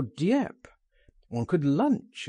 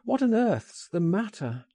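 high, urgent question without shouting; concerned cry; 7 semitones higher than usual. A narrator's reading. Narrator presses his shaking friend, crying out. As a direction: pitch it up in alarm, falling at the end. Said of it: "I cried".

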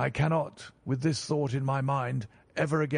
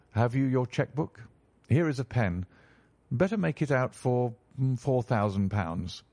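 lower, dry and assured detective; calm detective; 3 semitones lower than usual. Acted. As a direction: Holmes savouring his reveal, unhurried. Holmes calmly demanding payment.

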